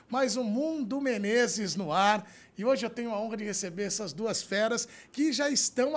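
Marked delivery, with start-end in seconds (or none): 0.1-2.3 announcer. Acted. Host announces show name.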